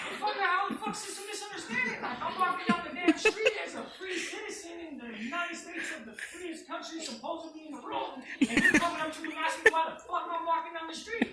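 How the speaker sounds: loud, high-pitched indignant rant; retold angry outburst. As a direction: relive the outrage at full volume, pitched well up. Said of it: "Like, I was pissed".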